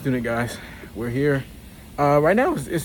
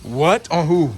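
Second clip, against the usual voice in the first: surprised; 4 semitones higher, 5 dB louder than usual. Real, not acted. Shocked reaction to staying in lab.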